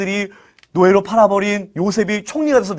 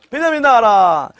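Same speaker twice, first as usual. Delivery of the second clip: drawn-out playful summons; calling out; 4 semitones higher, 4 dB louder than usual. Pretend. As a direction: call out as if leading a crowd of kids. Repeated group call for Benjamin.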